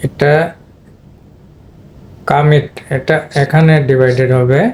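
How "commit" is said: "কামিট" with first vowel reduced to "কা"; second-syllable stress. Shown as a demonstration. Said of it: "দ্বিতীয় সিলেবলে stress পড়েছে".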